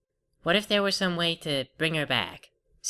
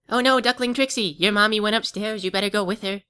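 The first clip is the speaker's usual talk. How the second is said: put-on baby talk; 6 semitones higher than usual. Talking to duckling Trixie.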